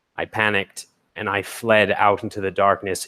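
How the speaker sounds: ordinary talk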